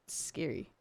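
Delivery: a breathy spooked whisper; scared whisper. Real, not acted. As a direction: whisper it like something is watching. Spooked by a slowly walking silhouette.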